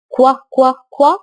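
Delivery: كوا said as a crisp kw; kw sound. Shown as a demonstration. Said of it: "صوت ال Q". (صوت كوا واضح)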